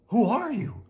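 high cartoon question; cautious question. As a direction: call into the box in a high voice. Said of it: "they asked".

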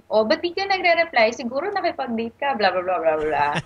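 nagging mom. Retold or imitated. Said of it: "magte-text siya".

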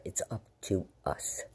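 "It's up to us" repeated as a soft unvoiced whisper, slowed; hushed slow whisper for emphasis. Real, not acted. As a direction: whisper it back, slowly and earnestly. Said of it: "repeats line as whisper".

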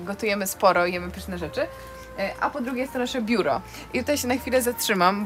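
normal talking voice

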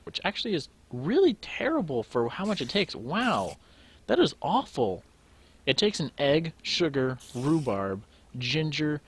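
loud, indignant rant with swooping pitch; exasperated disbelief. Real, not acted. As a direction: hammer each ingredient in disbelief. Ranting at a costly recipe.

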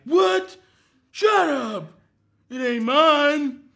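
loud, high yelps of disbelief; shocked denial. Retold or imitated. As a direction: act out a panicked dude denying it. Most dudes would be like.

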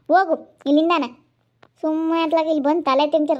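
cross, impatient telling-off; irritated dismissal. Acted. Madam telling helper to stop talking and go, irritated. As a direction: send her away with annoyance. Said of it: "ಮಾತಾಡ್ಸಿದ್ರೆ ಸಾಕು ರೇಗಾಡ್ತಾ ಇದ್ದೀರಾ".

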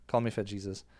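ordinary delivery

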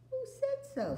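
put-on very high indignant girl; a sharp child's challenge; Lucy challenging her brother.

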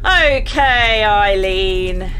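hint of Irish, drawn out; loud, stretched words with a light Irish lilt; slightly Irish accent. Gamer addressing Eileen, slightly Irish accent. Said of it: "hard not to say it in, uh, an I-, a slightly Irish accent".

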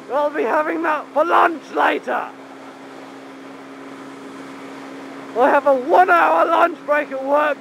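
projected outdoor calling voice; shouting. Real, not acted. Rider joking to viewers about roadkill lunch, shouting. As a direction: shout it over the wind. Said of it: "I wonder if I'm gonna keep shouting".

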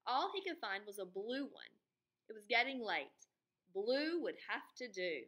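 lively storybook reading; reading to children. A narrator's reading. Teacher reading the book aloud to her students, expressive. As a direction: read it to the class with expression.

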